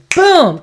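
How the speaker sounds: high, loud punched "boom"; sudden boom. Acted. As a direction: boom it out like a blast. Imitates anger kicking in.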